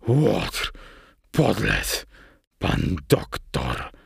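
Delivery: seething insults, each set apart; furious muttering. A narrator's reading. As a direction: mutter through foaming rage. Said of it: "mruknął, pieniąc się z wściekłości".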